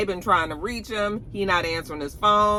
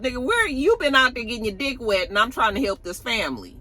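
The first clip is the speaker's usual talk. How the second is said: fed-up Auntie; 5 semitones higher than usual. Retold or imitated. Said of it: "Auntie is fed up".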